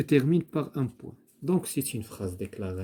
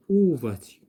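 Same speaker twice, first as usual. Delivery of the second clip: "où vas-tu" asked high and loud; rising question tune; 3 semitones higher, 6 dB louder than usual. Shown as a demonstration. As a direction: ask "où" like a real question. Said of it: "on va dire".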